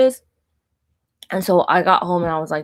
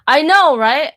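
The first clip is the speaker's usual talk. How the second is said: high, loud burst of agreement; emphatic agreement; 8 semitones higher, 6 dB louder than usual. Real, not acted. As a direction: agree emphatically, pitch leaping up. Agreeing emphatically with a live listener.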